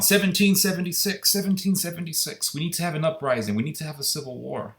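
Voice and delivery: high, chanting knucklehead mimicry; imitating a riled-up knucklehead; mock knucklehead. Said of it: "knuckleheads who walk around".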